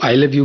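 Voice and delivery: I love you with the I punched; stress on I. Shown as a demonstration. Actor showing how emphasis on I shifts the meaning. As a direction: hit the word I, then let love you fall away. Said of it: "अगर मैं I पर emphasise करता हूँ".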